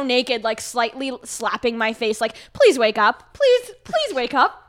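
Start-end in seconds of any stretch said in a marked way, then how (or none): 2.5-4.7 raised, urgent imitation of begging; mock pleading. Imitating the guy slapping her face awake, pleading. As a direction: plead with mounting panic, hammed-up.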